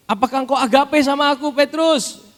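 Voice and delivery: high, loud pleading question; preached question. Acted. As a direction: lift it high and loud over the congregation. Jesus asks again, preached. (pertanyaan yang dikhotbahkan tinggi dan keras)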